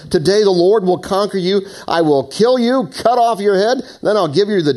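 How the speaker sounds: high, loud, ringing declaration; David shouting back. A narrator's reading. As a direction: proclaim it forcefully as a battle challenge. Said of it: "David shouted in reply".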